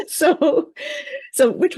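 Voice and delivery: high, laugh-filled word. Real, not acted. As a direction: carry on through real laughter. Still laughing after joke.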